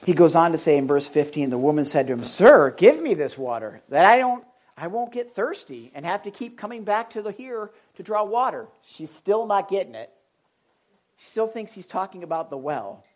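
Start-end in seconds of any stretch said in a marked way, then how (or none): 2.2-8.7 eager plea. Retold or imitated. Woman at well begging.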